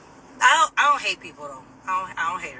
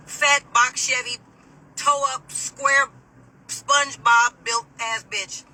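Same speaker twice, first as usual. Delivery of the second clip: slow and punchy, each insult landed; mocking roast; 3 semitones higher, 4 dB louder, slower than usual. Real, not acted. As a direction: roast her, one jab at a time. Roasting the guard.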